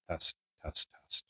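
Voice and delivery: muffled, heavily filtered mic test; heavy noise cancellation. Shown as a demonstration. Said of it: "this is high noise cancellation".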